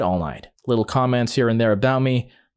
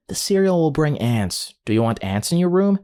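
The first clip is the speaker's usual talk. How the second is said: explaining mother; 5 semitones higher than usual. Retold or imitated. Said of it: "trying to explain why it wasn't acceptable".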